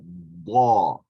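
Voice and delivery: "ba" com lábios arredondados, som escuro; lips pursed. Shown as a demonstration. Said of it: "pucker your lips and make, and say ah".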